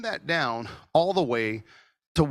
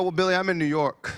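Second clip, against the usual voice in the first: bad New York accent; 5 semitones higher, 4 dB louder than usual. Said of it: "That was a horrible New York accent".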